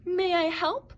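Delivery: keen little rabbit asking; eager. A narrator's reading. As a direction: jump in wanting to help. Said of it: "He asked eagerly".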